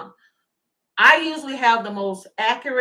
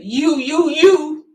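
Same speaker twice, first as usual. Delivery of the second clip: mock stutter; 2 semitones higher, 7 dB louder, much slower than usual. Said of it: "He said".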